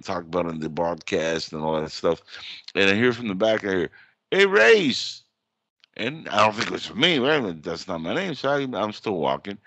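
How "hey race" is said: loud high call across a crowd. Retold or imitated. Stranger calling out to him at the symposium, loud high call. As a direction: shout a name to get his attention.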